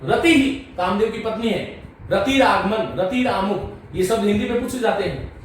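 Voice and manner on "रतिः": रतिहि with a breathed echo of the i; visarga as hi. Shown as a demonstration. Teacher gives a further example, रतिहि ending "hi". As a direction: end रतिहि on a short "hi". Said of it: "इस तरह से".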